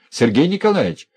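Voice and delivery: loud, high mimicking shout of her call; jeering loud call across the room; mocking call. A narrator's reading. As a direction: echo her cry in mockery. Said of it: "подхватил и Князев её зов".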